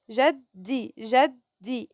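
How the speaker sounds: "جدي" split between its two d sounds; teacher sounding out "جدي" in two parts; syllable by syllable. Shown as a demonstration. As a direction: break "جدي" after the first د. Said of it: "الجيم مع الدال".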